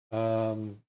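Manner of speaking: mid-yawn, words stretched out. Real, not acted. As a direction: say it through a real yawn. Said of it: "oh, am I yawning?".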